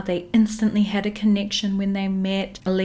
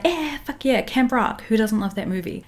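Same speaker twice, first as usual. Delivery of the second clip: imitating a hyped crowd, higher pitched; 3 semitones higher than usual. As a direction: cheer it like a fan in the stands. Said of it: "the crowd was like".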